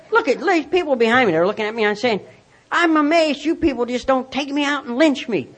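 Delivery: mock outburst with the pitch pushed up; mock scream. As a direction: rant in a hammed-up retold scream. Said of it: "I began to scream".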